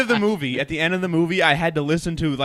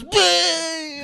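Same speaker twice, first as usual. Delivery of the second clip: high drawn-out cartoon "bleh"; imitated gag; 12 semitones higher than usual. Retelling the SpongeBob theater gag, high mock retch. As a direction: imitate a cartoon character keeling over. Acting out SpongeBob guy gagging, dying.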